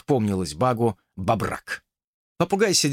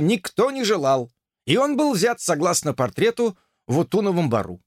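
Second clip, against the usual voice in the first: officer snapping to attention, higher; dutiful officer report; 6 semitones higher than usual. Acted. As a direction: report crisply to a superior. Officer's long formal report.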